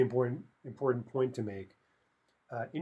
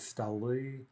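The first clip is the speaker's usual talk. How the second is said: stoli with stress on the final i; stress on the ending. Shown as a demonstration. Teacher showing the plural, stoli stressed on the ending. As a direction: slowly land on the last vowel of stoli. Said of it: "it's gonna be stressed".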